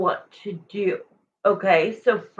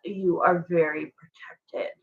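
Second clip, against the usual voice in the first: whispered reassurance; 2 semitones lower than usual. Real, not acted. Reader whispering to the viewer Xavier that they're protected, whispered. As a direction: lean in and whisper it like a secret blessing.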